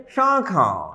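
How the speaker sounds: শাখা with the first vowel nasalised. Shown as a demonstration. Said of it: "এটা উচ্চারণটা কি হবে".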